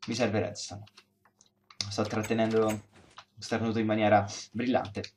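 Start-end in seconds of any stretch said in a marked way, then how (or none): 1.9-5.1 holding in a sneeze. Real, not acted. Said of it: "Sto per starnutire".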